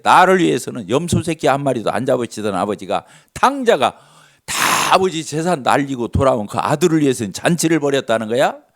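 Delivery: indignant complaint, rising at 탕자가; angry older son. Retold or imitated. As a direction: huff out the grievance at his father. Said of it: "화를 내는". (씩씩대며 화내는 큰아들)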